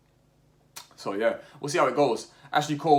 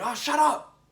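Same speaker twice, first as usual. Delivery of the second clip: much higher, slow mock outburst; 4 dB louder than usual. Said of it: "And they're like".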